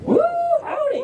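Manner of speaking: high, whooping Southern holler; Southern drawl. Acted. Reader cheering the pups on, high Southern drawl whoop. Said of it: "but in a Southern drawl".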